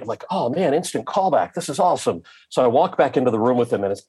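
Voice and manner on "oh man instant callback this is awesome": mild retold excitement, pitched higher; delighted. Actor hearing of an instant callback, mildly thrilled.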